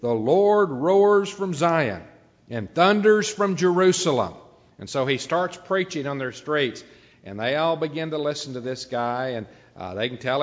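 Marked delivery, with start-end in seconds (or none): 0.0-4.3 raised, ringing southern voice; southern preacher. Acted. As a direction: thunder it out like a southern country preacher, pitched high. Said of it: "in that southern voice".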